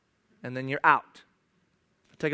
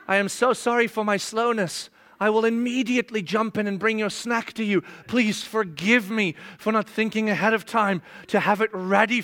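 lightly hammed-up groveling servant; a touch of mock servility to the kids. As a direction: grovel with playful sarcasm. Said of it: "I'll go like this".

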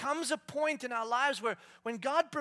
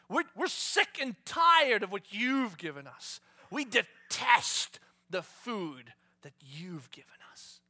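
complaining Israelites; 3 semitones higher, 10 dB louder, slower than usual. Retold or imitated. Israelites to God, loud slow grumbling complaint. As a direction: whine your disgust at the food. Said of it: "and said this".

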